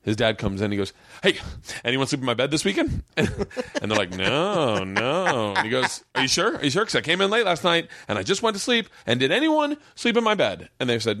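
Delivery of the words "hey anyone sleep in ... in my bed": rising, more and more suspicious dad; dad's suspicious questioning. Retold or imitated. Dad quizzing his sons about his bed, rising suspicion. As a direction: press the boys like a suspicious dad.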